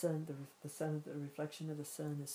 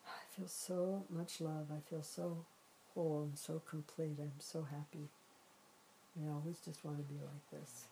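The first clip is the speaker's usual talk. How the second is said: blissful contentment; 6 dB quieter than usual. Pretend. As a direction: let it melt into quiet fullness. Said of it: "in the clear water bucket, the person feels".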